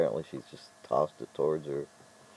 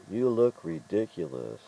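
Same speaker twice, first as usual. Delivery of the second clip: higher, drawn-out emphatic quote; slow, raised-pitch mocking quote; quoting capitals; 4 semitones higher than usual. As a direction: stretch out the typed insult. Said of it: "in capitals".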